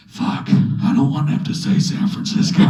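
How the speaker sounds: hissed inner panic; dreading admitting San Francisco, hissed aside; panicked whisper. Retold or imitated. Inner thought when asked.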